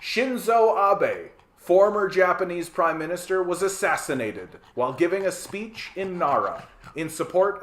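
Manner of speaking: measured news anchor delivery; grave newsreader tone; news read. Acted. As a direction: read it like a TV bulletin. Reads a news item.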